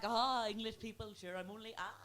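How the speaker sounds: high, wailing mock-Irish fuss; self-deprecating Irish gush. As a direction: overdo the Irish charm, half-crying. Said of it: "my wee joke to be like".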